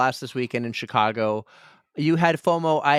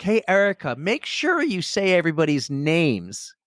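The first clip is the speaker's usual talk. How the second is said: bossy; 3 semitones higher than usual. Retold or imitated. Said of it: "came out like I was being a, an asshole".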